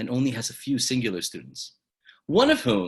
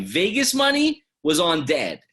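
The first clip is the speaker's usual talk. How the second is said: playful aside; 8 semitones higher, 6 dB louder than usual. Real, not acted. Joking about betting odds.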